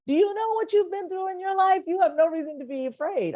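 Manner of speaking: scolding herself. Retold or imitated. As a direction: pitch up and challenge your own fear. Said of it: "that's what I say to myself".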